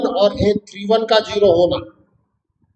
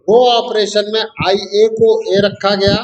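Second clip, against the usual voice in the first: slow repeat; slower than usual. Shown as a demonstration. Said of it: "मैं repeat कर रहा हूँ".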